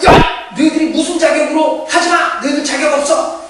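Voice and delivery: loud, high-pitched telling-off; scolding shout. Acted. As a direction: shout them down like an angry disciple. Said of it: "이러면서 호통을 치고 왔습니다". (큰 소리로 호통치듯)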